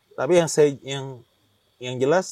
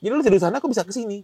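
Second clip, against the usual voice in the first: higher, louder mock-baffled question; retold disbelief; 6 semitones higher, 8 dB louder, faster than usual. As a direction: imitate a friend demanding an explanation. Teman heran ia berpindah tempat. (menirukan teman bertanya heran)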